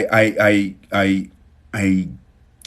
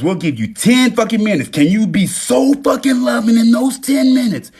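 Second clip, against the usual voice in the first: universe talking; 11 semitones higher than usual. Retold or imitated. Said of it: "The universe says".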